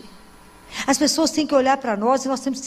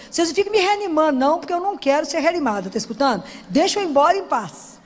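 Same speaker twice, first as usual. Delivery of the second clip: quick, raised-pitch playful insistence; mock insistent protest; 3 semitones higher than usual. Speaker to ICU staff about resuscitation, mock insistent. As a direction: playfully order them to leave you be.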